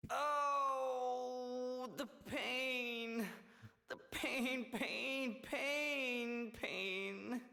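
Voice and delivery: hammed-up moaning in pain; fake stomach ache. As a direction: ham up a fake bellyache. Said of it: "the old fake stomach ache routine".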